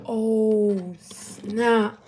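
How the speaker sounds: loud, drawn-out retold realization; dawning dismay. Seeing the text never sent, loud mock dismay. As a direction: act out a big uh-oh moment. Her reaction to the undelivered text.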